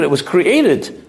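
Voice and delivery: slow, deliberate it was created; drawn-out, teaching emphasis. Shown as a demonstration. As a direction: spell out it was created slowly. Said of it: "emphasized the word Shenivra".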